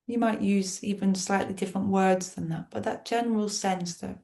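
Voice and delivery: unhurried meditation voice with long, restful pauses; guided meditation. Real, not acted. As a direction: gently guide listeners inward, leaving space between phrases. Leads the guided visualization.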